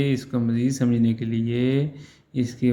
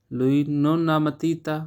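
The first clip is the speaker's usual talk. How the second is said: slow model sentence; 2 semitones higher, much slower than usual. Shown as a demonstration. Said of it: "teacher models Italian slowly".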